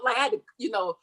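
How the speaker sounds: ordinary talk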